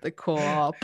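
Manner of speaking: playful stab at Boston vowels; Boston accent. Retold or imitated. Echoing co-host's film quote in Boston accent. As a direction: echo it in a mock Boston accent. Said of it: "it's just full of that accent".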